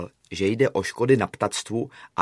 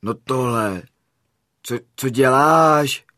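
stammering, taken aback, louder on the question; startled protest; 3 semitones higher, 5 dB louder, slower than usual. Acted. Friend to Mňouk after the lamp is shot, startled. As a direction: blurt it out in stunned disbelief.

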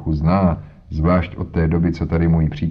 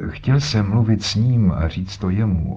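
put-on stubborn old man. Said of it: "opakoval s nerůtklivou stařeckou umíněností".

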